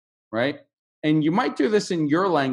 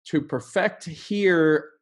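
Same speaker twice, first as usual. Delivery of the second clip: slow verb demo; slower than usual. Shown as a demonstration. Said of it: "I wanna stress two things".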